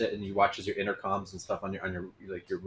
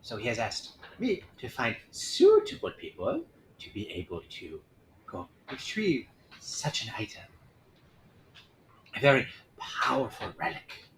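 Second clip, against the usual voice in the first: whispery envoy voice. Acted.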